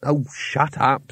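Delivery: slow, tired brush-off; slow fed-up sigh of a line; weary. Acted. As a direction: drag it out wearily. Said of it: "said Rincewind wearily".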